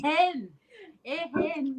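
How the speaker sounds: Scottish pronunciation. Shown as a demonstration. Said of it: "You say ehen".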